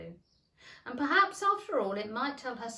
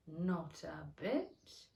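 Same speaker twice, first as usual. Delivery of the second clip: curt; 4 semitones lower, 3 dB quieter, much slower than usual. Acted. Terse caterpillar reply.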